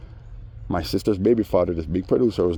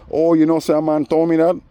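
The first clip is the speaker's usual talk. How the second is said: much higher and louder whiny protest; mock protest; 10 semitones higher, 7 dB louder than usual. The man defending himself to him, higher loud whiny protest. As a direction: whine it out like a caught liar. Mocking the man's claim.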